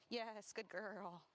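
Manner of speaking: slow, drawn-out praise to a dog. Real, not acted. Trainer praising the dog slowly and gently. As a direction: stretch it out gently.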